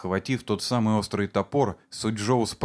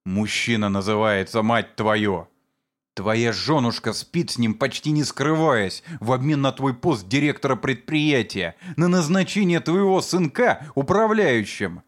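building abusive rant; 3 semitones higher than usual. Acted. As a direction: pile on the insults. Sujou keeps berating the father. (нарастающая злобная брань)

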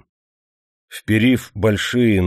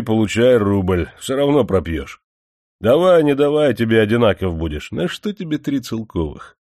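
lightly voiced mocking manager; 3 semitones higher than usual. Manager mocks Andreyka.

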